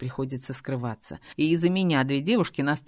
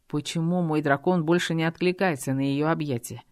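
ordinary delivery

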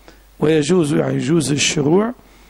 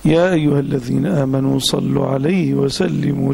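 slow, measured recitation of the verse; solemn slow Quranic reading; 3 semitones lower, slower than usual. Acted. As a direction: recite it slowly and reverently. Opens lesson with Quranic verse.

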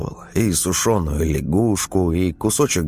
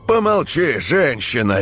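barking shout; 10 semitones higher than usual. A narrator's reading. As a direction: bark it at her. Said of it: "рявкнул колдун".

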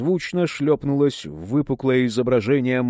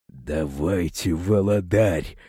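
casual; 8 semitones lower, slower than usual. A narrator's reading. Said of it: "как ни в чём не бывало".

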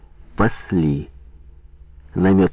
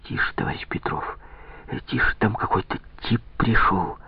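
urgent hushed whisper; whispering a secret password; 8 dB quieter than usual. A narrator's reading. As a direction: whisper so nobody hears. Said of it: "Приложила палец к губам".

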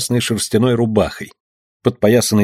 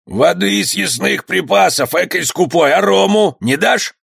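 mocking bandit; 8 semitones higher than usual. Bandit mocks the stingy skipper.

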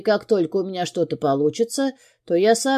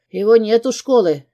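nervous; 4 semitones higher, 5 dB louder than usual. A narrator's reading. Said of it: "отвечает он нервно".

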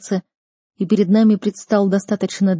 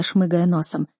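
ordinary delivery

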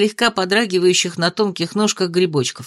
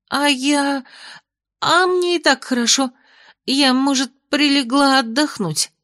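snapping back; 7 semitones higher than usual. A narrator's reading. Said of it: "огрызнулась Майя".

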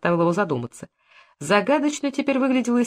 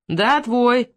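mocking mimicry; 4 semitones higher, 3 dB louder than usual. A narrator's reading. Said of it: "передразнил его Лубников".

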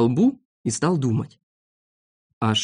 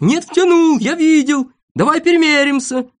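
high, insistent yelling; loud, high-pitched squabbling; loud shouting; 12 semitones higher, 6 dB louder than usual. Acted. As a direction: shout him down with accusations. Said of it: "громко кричал Сиропчик".

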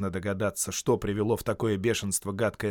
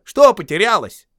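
calling out; 9 semitones higher, 12 dB louder than usual. Acted. Bilbo calling across water.

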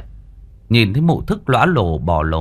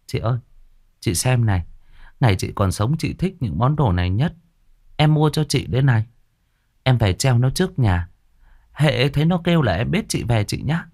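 tender; 4 semitones higher than usual. Acted. Girl talks to dead sister.

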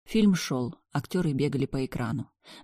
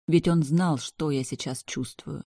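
ordinary delivery

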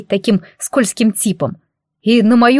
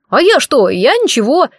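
high, louder, squirming little voice; wheedling squeak; 6 semitones higher, 3 dB louder than usual. Acted. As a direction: squirm your way out of trouble. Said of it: "тут же заюлил Кругляш". (колобок виновато юлит перед хозяйкой, высоко)

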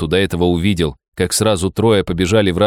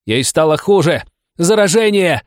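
yelling; 9 semitones higher than usual. Acted. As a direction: scream it out in a frenzy. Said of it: "проорала она".

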